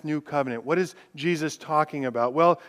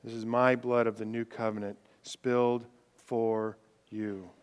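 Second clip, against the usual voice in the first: hushed Jesus; 5 semitones lower, 5 dB quieter than usual. Acted. Preacher voicing Jesus at the Last Supper, softly. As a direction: lower and much softer, fading away. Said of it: "Because Jesus says".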